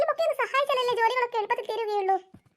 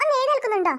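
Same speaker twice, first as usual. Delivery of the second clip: put-on exasperated call, a bit louder, to wake the kids; impatient wake-up call, slightly louder; faster than usual. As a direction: raise it on ഒന്ന് എഴുന്നേൽക്കുന്നുണ്ടോ, fed up. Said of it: "രണ്ടു പേരോടാ ഞാൻ പറയുന്നത്".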